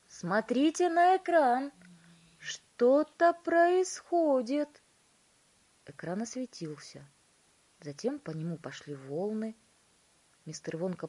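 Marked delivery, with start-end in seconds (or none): 0.1-4.8 high, loud urgent call; excited shout. A narrator's reading. Wonka pointing everyone to the screen, shouting excitedly. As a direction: cry out that it's starting. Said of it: "закричал мистер Вонка".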